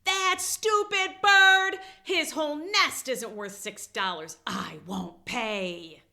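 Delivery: high, slow, furious cartoon scream; Snoopy shrieks at Woodstock's bill, high and slow. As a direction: scream it like an outraged dog. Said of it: "He screams".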